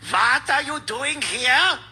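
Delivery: put-on a light old-movie German officer accent. Host shows how movies fake Germans, slow German accent. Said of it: "it's a German guy".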